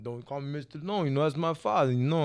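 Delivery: lightly voiced Rocky impression; a hint of movie-boxer voice; Sylvester Stallone. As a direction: imitate the action star waving off formality. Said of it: "Make sure you do his voice".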